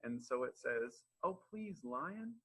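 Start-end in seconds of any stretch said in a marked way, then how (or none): 1.2-2.4 high-pitched little mouse begging; pleading mouse. Acted. Little mouse begs the lion not to hurt it, pleading. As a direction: plead up high like a small storybook creature.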